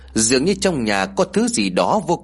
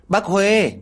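calling out gladly; 9 semitones higher than usual. Acted. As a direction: call across the lane to her. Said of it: "Hai đứa trẻ liền rao lên".

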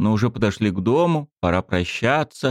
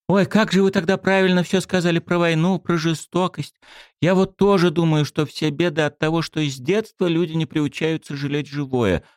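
put-on high earnest girl voice; 9 semitones higher than usual. A narrator's reading. Svetka's high voice.

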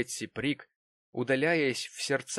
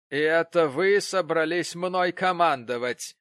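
loud, high outraged cry; indignant exclaim; 6 semitones higher, 7 dB louder than usual. Acted. Betsey Prig bristling at being ordered, loud indignant cry. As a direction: throw the words back at her. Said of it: "воскликнула миссис Прик".

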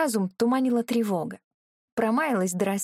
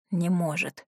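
hoarse; 3 semitones lower than usual. Acted. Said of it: "хрипло вымолвил Ичень".

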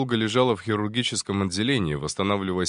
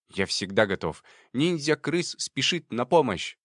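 squeaky rat voice; 4 semitones higher than usual. Acted. Rat salutes with paw.

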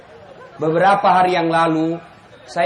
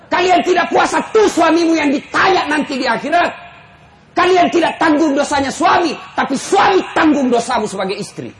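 fiery preaching; 6 semitones higher than usual. Acted. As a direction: drive it home like a sermon climax. Preaching at full force. (khotbah berapi-api, keras dan tinggi)

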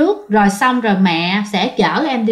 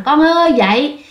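mother's wake-up call, pitched up; imitated motherly call, only mildly raised; 4 semitones higher than usual. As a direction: call a sleeping child from the next room. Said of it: "mẹ kêu lớn để mà với qua".

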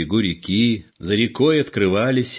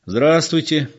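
friendly greeting; 8 semitones higher, 3 dB louder than usual. A narrator's reading. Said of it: "приветливо сказал Егор".

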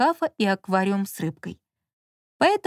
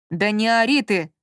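angry hush. Acted. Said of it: "разозлился он".

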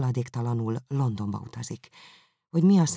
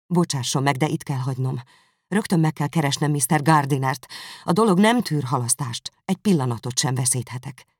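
a touch louder, hurried and agitated; urgent outburst; 3 dB louder than usual. Acted. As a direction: press to leave at once. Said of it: "hevesen felkiáltott". (sürgető, izgatott felkiáltás)

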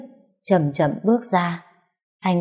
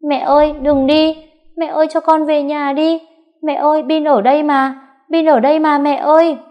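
put-on very high, loud desperate boy's cry; child wailing; 9 semitones higher, 5 dB louder than usual. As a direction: wail after a mother who is walking away. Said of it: "vẫn gào lên".

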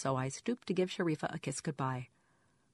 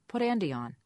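squeaky caller; 5 semitones higher, 3 dB louder than usual. A narrator's reading. Caller demands Andy.

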